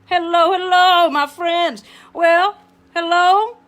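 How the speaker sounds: loud, high, drawn-out hellos; big host greeting. Acted. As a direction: welcome the viewers with gusto. Talk show host greeting viewers.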